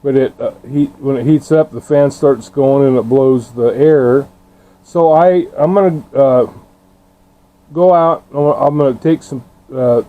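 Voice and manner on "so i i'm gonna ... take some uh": talking with numb frozen lips. Real, not acted. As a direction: lips too cold to move. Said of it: "My lips are frozen".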